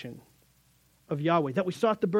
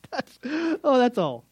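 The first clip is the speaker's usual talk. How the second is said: much higher and louder, wide-eyed oh; mock astonishment; 7 semitones higher, 4 dB louder than usual. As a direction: act floored by how simple it is. Mock surprise at God's plan.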